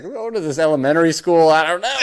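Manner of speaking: high voice, laughing through it. Retold or imitated. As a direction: giggle it out in a high voice.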